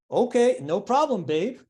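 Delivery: high, casual "no problem, babe"; breezy mock confidence. Songwriter bluffing calm before the big stars, breezy. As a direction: act totally unbothered, playing it cool. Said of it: "And I'm like".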